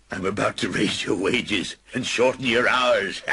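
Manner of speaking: spring the good news; gleeful reveal. Acted. Scrooge surprises Bob with a raise, gleeful.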